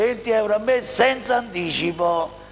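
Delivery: upbeat sales pitch; infomercial. Acted. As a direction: sell it like a TV car ad. Dealer pitches car price. (voce da televendita)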